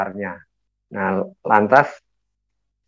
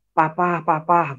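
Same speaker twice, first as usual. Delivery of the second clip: slow, higher mock cry for Papa; retold wailing; 4 semitones higher, slower than usual. Wife crying for her husband, mild retold wailing. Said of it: "terus saya kedengaran suara tangisan".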